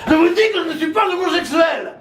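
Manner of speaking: put-on shouted, insistent old politician; hammed-up indignant old demagogue; Le Pen impression. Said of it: "Le Pen".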